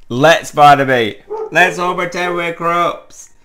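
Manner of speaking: high, loud, stretched-out cheer; overjoyed urging. Acted. Friend urging Barnaby to join the game, overjoyed. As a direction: call it out in giddy excitement. Eager invitation repeated to Barnaby.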